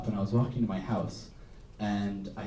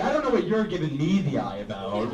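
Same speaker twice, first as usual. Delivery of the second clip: sassy comeback; 4 semitones higher than usual. Retold or imitated. Comedian answering the classmate's glare, sassy and laughing. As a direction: toss it back with a laugh. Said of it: "So I was like".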